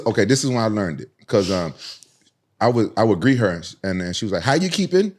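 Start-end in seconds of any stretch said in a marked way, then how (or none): 4.4-5.1 higher-pitched imitation of an Irish girl; lilting Irish greeting, pitched up. Irish girl greeting him, imitated Irish way of talking. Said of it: "used to talk like that".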